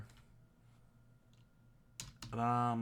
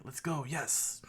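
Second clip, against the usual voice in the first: cheering; 4 semitones higher than usual. Retold or imitated. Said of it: "Like saying".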